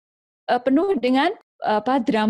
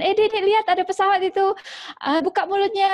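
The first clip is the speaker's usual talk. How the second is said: much higher, excited coaxing mom; distracting mother; 10 semitones higher than usual. Mother distracting her child at mealtime with a pretend airplane, high coaxing. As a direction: coax the toddler to look up and open wide.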